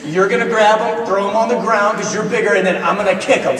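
put-on eager kid laying out revenge; imitating vengeful son. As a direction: play a young son eagerly plotting payback. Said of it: "he's ready to return violence".

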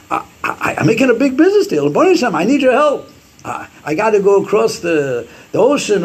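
high-pitched, imploring businessman; urgent plea. Acted. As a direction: act out an anxious appeal to heaven. Voicing a businessman's urgent plea to God.

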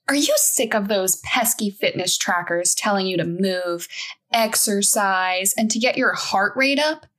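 upbeat TV ad voice; infomercial announcer. Acted. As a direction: sell it like a late-night infomercial.

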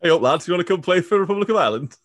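mock Yorkshire manager calling the lads up; Yorkshire accent. Podcast host imitating the Irish manager in a northern English accent. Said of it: "Not bad".

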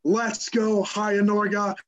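hammed-up Norwegian accent. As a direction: cheer it on in a playful Norwegian accent. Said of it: "I'm saying it in a Norwegian accent".

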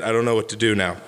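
talking through hiccups; a small hiccup breaking the words. Real, not acted. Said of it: "I'm hiccuping a little bit".

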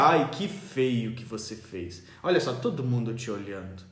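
lightly voiced mom tutting at a crying kid; mother whispering shame at her child in public; shaming mother. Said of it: "mamãe dizia".

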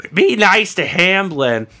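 a slow whispered motherly plea; whispered mom. Retold or imitated. His friend's mom hushing her son, whispered. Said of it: "She'll be like".

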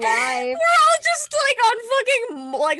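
slow, high, laughing through it. Real, not acted. Friend joking about being high, laughing hard. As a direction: crack up while saying it.

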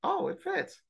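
high, soft mocking imitation of dad; a hammed-up pleased dad. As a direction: squeak it out like a delighted father. Father voiced in retold story.

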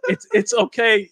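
retold soothing. Woman coaxes the scared teller down the hallway, retold soothing. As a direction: imitate a woman coaxing gently.

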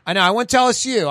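mock Southern country-boy accent. Friend back from college, imitated country accent. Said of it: "like, a country boy accent".

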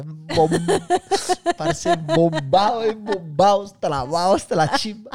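playing the stoned kid, slow and dazed. Retelling to girlfriend, slow mock stoned drawl. Recalls arriving high as kids.

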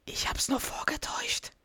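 a breathy confessing whisper. Acted. Duck whispers to his wife that he faked it.

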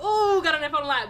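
laughing through the line. Real, not acted. Laughing as she recalls the phone call. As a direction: giggle while saying it.

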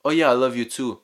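offhand, lightly dismissive reply; careless brush-off. Shown as a demonstration. Man answering his woman, offhand and dismissive. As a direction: toss it off without meaning it. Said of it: "if you don't say it like you mean it".

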